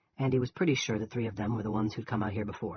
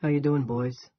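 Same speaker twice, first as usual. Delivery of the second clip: John Wayne drawl; 3 semitones higher, 4 dB louder, slower than usual. Acted. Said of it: "in a passable John Wayne drawl".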